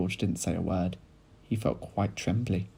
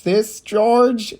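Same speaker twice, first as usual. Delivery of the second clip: loud, raised shout; 13 semitones higher, 13 dB louder than usual. A narrator's reading. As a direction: call out loud and excited to George. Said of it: "Mister Cranky shouted".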